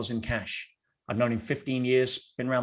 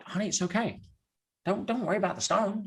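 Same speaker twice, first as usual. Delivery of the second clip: higher-pitched, lightly acted soothing of a partner; imitated soothing; 7 semitones higher, 3 dB quieter than usual. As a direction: gently play down a fiancée's upset, voice lifted. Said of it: "And I'm like".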